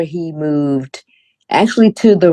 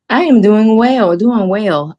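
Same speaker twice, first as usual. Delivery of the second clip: drawn-out, higher, louder; 5 semitones higher, 3 dB louder, slower than usual. Acted. Hammed-up slow reply.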